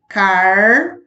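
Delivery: car-ru-a-gen with a clear break after each syllable; split into syllables. Shown as a demonstration. Teacher showing pupils how to split the word into syllables. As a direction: chop car-ru-a-gen into separate beats. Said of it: "a palavra carruagem fica assim".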